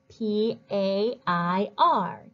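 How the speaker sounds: slow, letter by letter; spelling aloud. Shown as a demonstration. Teacher checks pupils' spelling, slowly letter by letter. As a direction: spell it out with each letter separate. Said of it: "Did you spell pair?".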